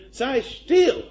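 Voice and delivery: loud, high-pitched shout; loud cry. Retold or imitated. Dying Bernard silencing the praying monks, loud cry. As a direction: cry it out sharply above the talk. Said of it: "Bernard hat laut geschrien".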